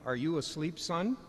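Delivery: apologetic dad speaking softly; quiet. Acted. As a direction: barely raise your voice so you won't wake him. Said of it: "says quietly".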